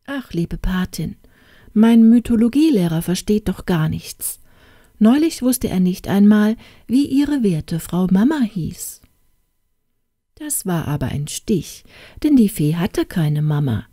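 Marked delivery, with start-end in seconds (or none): 0.1-9.0 mournful princess. Acted. Princess moaning to her godmother about her tutor. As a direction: whine sadly to the godmother fairy. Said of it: "sagte sie ganz trübselig".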